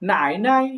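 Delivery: first "নাই" dips low, second "নাই" light and rising back; third tone then neutral. Shown as a demonstration. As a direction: dip on the first "নাই", release into a toneless "নাই". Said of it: "দাদির Chinese কি হচ্ছে".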